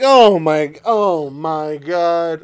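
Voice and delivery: drawn-out weary groan; exasperated groan. Retold or imitated. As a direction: groan it slowly, fed up. Fed up with the rant.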